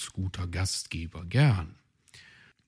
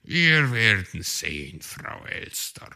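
amused reply; 4 dB louder than usual. Acted. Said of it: "meinte schmunzelnd".

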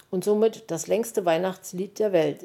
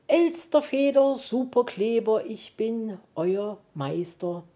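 Zauberspruch; 2 semitones higher than usual. Acted. Puh spricht Zauberspruch.

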